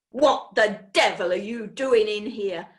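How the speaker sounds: loud, rough demand; angry farmer. Acted. Mister Ticker grabbing the boy, an angry loud demand. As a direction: bark it in the boy's face.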